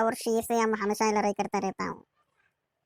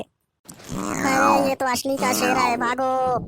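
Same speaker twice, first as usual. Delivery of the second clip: panicked cry; 4 dB louder, much slower than usual. Acted. Real lion appears, panic.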